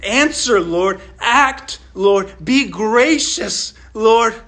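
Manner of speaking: David pleading in prayer; pleading with God. Acted. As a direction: beg the Lord for an answer. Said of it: "is pleading".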